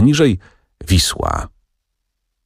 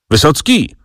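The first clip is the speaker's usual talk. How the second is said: higher mild call of the name Wysocki; 9 semitones higher than usual. A narrator's reading. Wokulski calls back the poor man, a mild call. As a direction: call after the leaving man, lightly voiced. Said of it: "zawołał".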